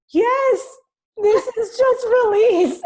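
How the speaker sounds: high, loud and laughing, slow on release; laughing reassurance. Retold or imitated. Daughter laughing to reassure her worried mom. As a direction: laugh it off while insisting it's fine.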